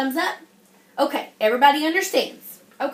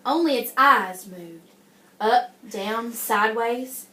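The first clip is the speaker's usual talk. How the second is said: put-on reading a picture book to children; story reading.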